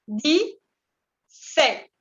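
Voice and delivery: "Dix-sept" como "disét", sin x. Shown as a demonstration. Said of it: "no se pronuncia la X". ("Dix-sept" sin pronunciar la equis)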